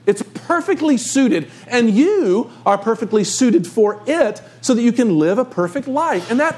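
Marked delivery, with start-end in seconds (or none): none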